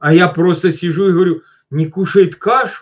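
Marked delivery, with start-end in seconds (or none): 1.7-2.8 put-on manly voice, firm and surprised. Retelling his reply to a mother's complaint, mock-surprised, firm question. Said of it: "Ну так, знаете, удивленно, но я по-мужски это говорю".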